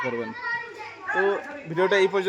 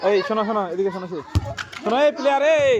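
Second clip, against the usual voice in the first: yelling across the room; 5 semitones higher, 4 dB louder, faster than usual. Real, not acted. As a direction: shout for the player to come. Calling a player over.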